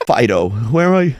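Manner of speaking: laughing through a fake sob; laughing mock actor. Mocking the actor calling his dog, laughing. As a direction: ham it up while laughing. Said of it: "And he's like".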